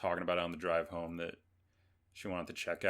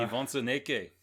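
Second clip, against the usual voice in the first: bad, louder Russian accent; hammy Russian accent, pitched up; 5 semitones higher, 6 dB louder than usual. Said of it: "That was a terrible Russian accent".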